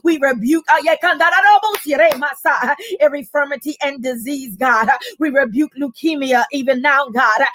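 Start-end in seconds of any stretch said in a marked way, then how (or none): 1.0-2.6 speaking in tongues. Real, not acted. Speaking in tongues mid-prayer.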